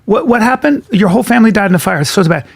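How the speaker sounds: high, fast, dismissive casting voice; mock casting director. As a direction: brush them off like a busy casting agent. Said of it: "It's like this".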